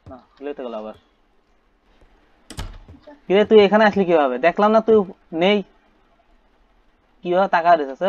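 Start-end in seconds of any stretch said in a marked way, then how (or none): 3.3-8.0 high, loud startled exclamation. Real, not acted. Player startled by the baby appearing, high and loud.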